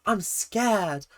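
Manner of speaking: slow, hammed-up mock fright; hammy fear. Reactor mimicking a dancer's acting, hammy fear. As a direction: overact being scared, drawing it out. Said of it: "Maddie's felt very hammy".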